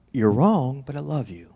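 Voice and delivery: gentle, fading to very soft; loving truth-telling. Shown as a demonstration. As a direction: correct kindly, then drop softly. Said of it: "Me being loving, but speaking the truth".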